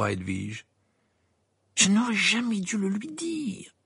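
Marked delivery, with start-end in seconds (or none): 1.8-3.8 high, slow, agonised outburst; furious exclamation. A narrator's reading. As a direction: curse your own mistake with fury. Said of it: "s'exclama-t-il avec fureur". (avec fureur)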